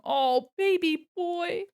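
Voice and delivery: high, slow, doting coo. Real, not acted. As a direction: coo it to a sweet cat. Cooing at a cat.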